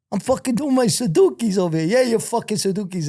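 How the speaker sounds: high-pitched mock protest and retort; retold argument. Prisoner and guard arguing over the alibi, high retold bickering.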